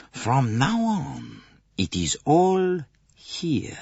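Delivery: slowed, half-whispered confidence; hushed. A narrator's reading. Poirot to his companions, slow hushed whisper.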